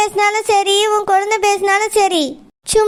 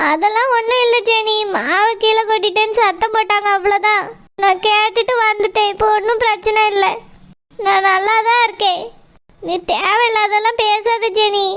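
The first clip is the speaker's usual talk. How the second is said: hiding tears. Acted. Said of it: "வாய்ஸ்லயே தெரியுதுக்கா நீ அழுறது".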